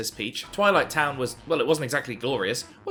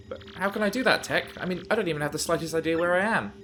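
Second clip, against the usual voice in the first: a hint of a fretful princess; Princess Peach voice; 3 semitones higher than usual. Peach voiced in game dialogue.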